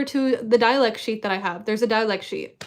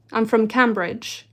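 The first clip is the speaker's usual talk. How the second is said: put-on British accent, drawn out. Pretending to come from Cambridge, in a British accent. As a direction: pass yourself off as British. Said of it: "I pretend to be British".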